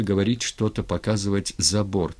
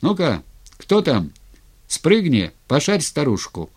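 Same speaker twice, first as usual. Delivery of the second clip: higher, louder call to the guard; 6 semitones higher, 5 dB louder than usual. Acted. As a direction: shout the order across the water. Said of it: "крикнул караульному".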